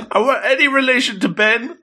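high, silly joking question; playful squeak of a question; joking aside. Pretend. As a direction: toss in a goofy high-pitched quip. Joking aside right after a laugh.

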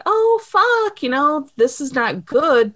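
high, panicked gasp of a line; mock panic, voice jumping up high; freaking out. Waverly realizing Doc is not the dad, panicking. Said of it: "she's freaking out".

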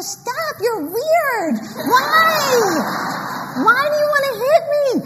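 put-on high, pleading kid voice; whining child. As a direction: beg her to stop, baffled. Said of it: "And I'd go".

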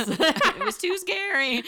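high, loud, drawn-out playful wail; mock fright. Joking about fleeing London forever, mock scared. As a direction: wail it slowly with hammed-up terror.

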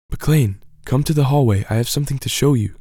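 lightly excited sister; eager, hurried call. Acted. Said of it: "she excitedly responded through the vent".

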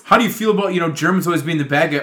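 interviewer voice. Retold or imitated. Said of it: "he's like".

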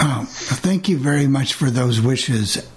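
off mic, distant and thin; speaking turned away from the microphone; far from mic. Real, not acted. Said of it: "sounds like you're off mic a little bit".

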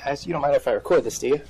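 nervous breathing; audible breathing. Real, not acted. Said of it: "you can hear me breathing here 'cause I'm nervous".

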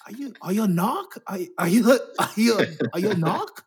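put-on a weak try at a Boston accent; bad Boston accent. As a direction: attempt a Boston accent and miss. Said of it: "That was a terrible accent".

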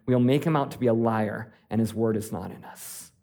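calm reading of First John; scripture reading. Acted. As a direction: read the passage steadily to the congregation. Reads scripture aloud.

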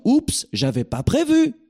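high, slow mock oops of surprise. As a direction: play the caught-off-guard listener, slowly. Audience's inner surprise acted out.

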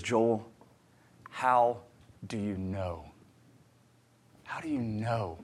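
a quiet, soft attempt at an Irish accent on "How do you know?"; a modest Irish accent impression of a searching friend. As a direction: imitate Colin's Irish lilt, lightly and hushed. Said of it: "it's my best. I'll never try that again, accent".

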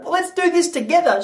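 very high, coaxing husband act; mock pleading. Husband coaxing his upset wife, high mock pleading. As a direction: plead comically, voice pushed way up.

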